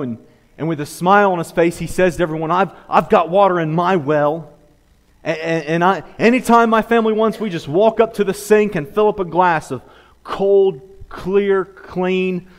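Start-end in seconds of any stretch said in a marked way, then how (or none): 2.5-12.5 raised, louder bragging; mildly boastful neighbor. Acted. Neighbor bragging about his well to everyone, lightly boastful. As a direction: savor each adjective, pausing between them.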